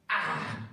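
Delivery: acted-out cry of pain; yelp of pain. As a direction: yelp as if a needle went into the foot. Steps on needle, cries out.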